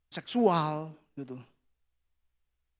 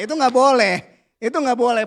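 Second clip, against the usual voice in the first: firm loud scolding; 5 semitones higher, 9 dB louder than usual. Real, not acted. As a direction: forbid it with a raised voice. Scolding children firmly. (tegas dan keras melarang)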